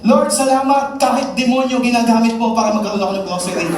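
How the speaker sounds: high, loud, fast thanks with laughter; Christian thanks God even for the devil's gift; laughing thanks. Acted. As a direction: gleefully thank God for the twist.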